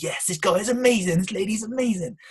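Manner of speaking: high, loud upbeat gush; bubbling over with enthusiasm; engaged and energetic. Shown as a demonstration. Coach showing engaged body language on a call, energetic. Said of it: "I'm engaging you, I'm looking at you".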